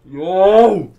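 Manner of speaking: high, loud yelp; startled yell. Real, not acted. Friend startled by the horror game, startled yell. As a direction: call out in shock, pitch jumping.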